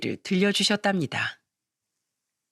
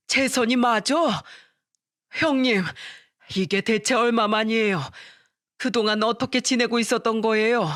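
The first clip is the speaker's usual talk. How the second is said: higher, eager cries of recognition; excited reunion; 3 semitones higher than usual. Acted. Father-in-law recognizing his old army senior, excited and higher. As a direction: call out to a long-lost friend in disbelief. Reunion after forty years.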